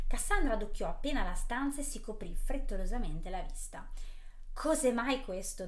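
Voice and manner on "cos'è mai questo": furious question. Acted. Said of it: "domandò furiosa".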